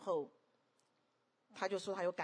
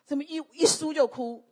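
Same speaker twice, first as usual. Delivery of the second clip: mock exasperation; 8 semitones higher, 11 dB louder than usual. Retells own exasperated question.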